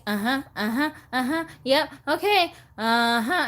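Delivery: singsong automatic agreement, pitch rising; mock patient replies. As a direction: humor them with absent yeses. Acts her replies to pestering family.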